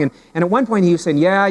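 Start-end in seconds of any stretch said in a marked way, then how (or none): 1.2-1.5 lightly put-on Newfoundland accent; higher-pitched mock Newfoundland accent; imitated Newfoundland accent. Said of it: "that's a rich accent".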